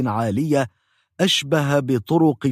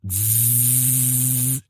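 drill buzz; 4 dB quieter, much slower than usual. Retold or imitated. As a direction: drone like a dental drill. Drill again.

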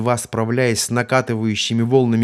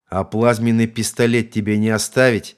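mocking; 4 dB louder than usual. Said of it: "издевательски поинтересовался грубый голос".

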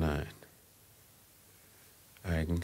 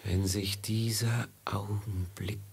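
leise gehauchte Sehnsucht; flüstere es wie ein Wunsch; geflüstert; 2 semitones higher than usual. Acted. Sterbender Mualab flüstert die Erinnerung. (geflüsterte Sehnsucht)

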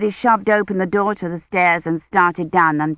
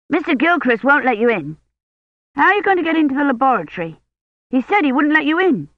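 put-on young boy's voice, pitched up; boy Colin; 8 semitones higher, faster than usual. A narrator's reading. Anxious boy pressing Dunworthy about the lab, quick higher voice. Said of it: "narrator voicing boy Colin".

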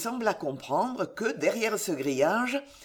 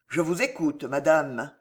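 indifferent; 3 semitones lower than usual. Acted. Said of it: "d'une voix indifférente".

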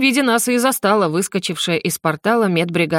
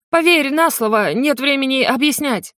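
sobbing plea; 7 semitones higher than usual. A narrator's reading. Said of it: "всхлипнул он".

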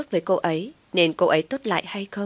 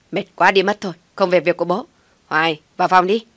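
irritated shout; 7 dB louder than usual. A narrator's reading. Son shouts back at father.

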